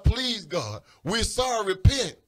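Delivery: rising desperate plea to God; imploring cry, swelling at the end; pleading. Retold or imitated. Acts out crowd begging God.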